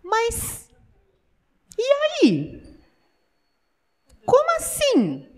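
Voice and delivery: preacher asking the deaf member, high and incredulous; incredulous challenge. Real, not acted. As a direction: press them with disbelief.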